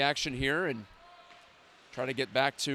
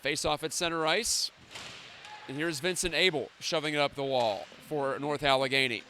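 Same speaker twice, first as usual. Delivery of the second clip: hockey play-by-play. Acted.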